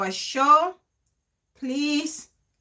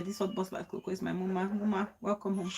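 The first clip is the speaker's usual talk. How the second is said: tender welcome; 5 semitones lower, 7 dB quieter than usual. Real, not acted. Tenderly greets her mama in chat.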